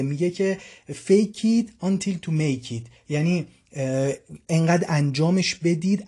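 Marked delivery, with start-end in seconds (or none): 0.9-2.8 English saying spelled out very slowly; slow English motto. Shown as a demonstration. Teacher giving his class an English saying, slowly. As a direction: lay out each word of the motto slowly. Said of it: "این مثال این میگه".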